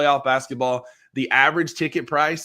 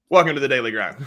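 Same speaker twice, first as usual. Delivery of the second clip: laughing mock welcome; 5 dB louder, much faster than usual. Cohost repeats intro while laughing.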